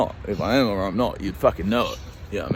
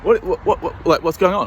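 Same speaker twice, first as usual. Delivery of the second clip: higher, flustered stammer; mock confusion; 7 semitones higher, 3 dB louder than usual. Caught in the yard, playing confused. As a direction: bumble through the whats. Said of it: "I might be like".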